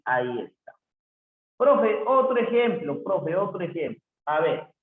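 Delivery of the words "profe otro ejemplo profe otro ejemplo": lightly voiced pupil, high and louder at first; a hint of an insistent student; pleading student. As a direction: pipe up asking the teacher, then easing off. Teacher voices students asking for another example.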